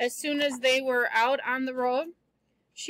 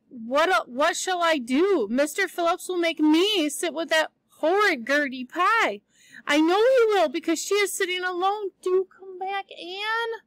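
lightly voiced young friend, louder and higher as she begs; pleading schoolgirl friend; 4 semitones higher, 3 dB louder than usual. Diana begging Anne to return to school, lightly voiced pleading. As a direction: beg your friend to come back.

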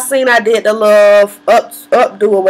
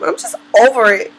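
fed up, laughing through the words; 5 semitones higher than usual. Real, not acted. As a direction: laugh as you say you're done with it. Laughing at her own frustration.

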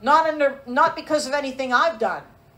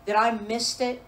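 lower, softened voice of acted regret; heartbroken confession; 4 semitones lower, 4 dB quieter than usual. Parent on their knees before the Lord, understated heartbroken confession. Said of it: "you cry before the Lord and say".

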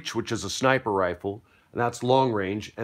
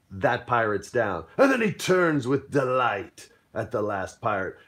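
normal talking voice

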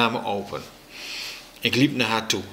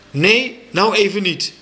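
high, loud angry refusal; riep; 9 semitones higher, 5 dB louder than usual. A narrator's reading. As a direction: snub it with a raised voice. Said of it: "riep mijn moeder". (boos geroepen)

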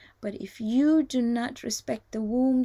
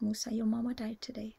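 hushed bad news; 6 dB quieter than usual. Angel breaking news of death.

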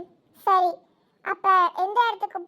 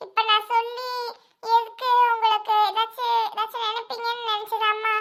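higher, put-on young man's voice; son's voice on phone; 3 semitones higher than usual. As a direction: play the son explaining away his absence. Voices son Arun on phone.

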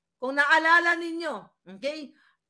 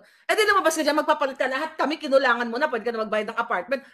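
a louder, sharp retort; 5 dB louder, faster than usual. Retold or imitated. Student telling off the short-changing cashier, loud retort. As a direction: call her out so everyone hears. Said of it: "Di ang ingay ko doon".

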